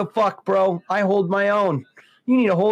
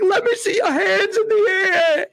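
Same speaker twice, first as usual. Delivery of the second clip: mock police shout; 13 semitones higher than usual. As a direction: yell it like a cop at a bust. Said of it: "He's like".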